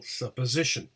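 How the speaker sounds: SUPPOSITION with lighter beat on SUP, main on SI; secondary stress. Shown as a demonstration. Teacher showing secondary stress at beginning, SUP then SI. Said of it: "secondary word stress at the beginning".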